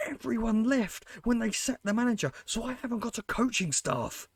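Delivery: real frustrated rant to viewers; worked-up rant. Real, not acted. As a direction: vent to the viewers about the board. Ranting to viewers about board.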